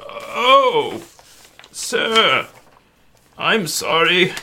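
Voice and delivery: high, meek servant voice; timid host's high voice. Acted. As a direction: play a humble, apologetic servant. GM voices servant greeting player.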